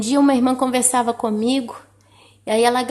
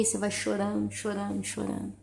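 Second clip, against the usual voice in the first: fading tearful; 2 semitones lower, 11 dB quieter than usual. Acted. Describing crying at night.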